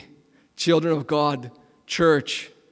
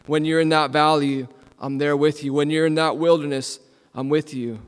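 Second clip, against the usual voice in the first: tender voice of God; 2 semitones lower than usual. Acted. Preacher voicing God's promise to the hurting, tender. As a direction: speak it like a promise to a frightened child.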